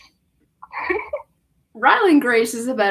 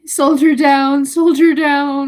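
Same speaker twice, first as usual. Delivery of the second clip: loud hammed-up war cry; mock soldier call; 3 semitones higher, 6 dB louder than usual. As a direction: call out a fallen comrade.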